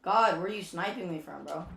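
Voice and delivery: frustrated gamer outburst. Real, not acted. Getting sniped in the game.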